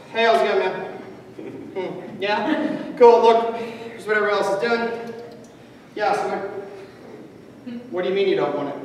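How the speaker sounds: a touch of a blunt, unfriendly salesman; rude pitch. Retold or imitated. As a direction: push the pitch with a bad attitude. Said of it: "he knocked on the guy's door".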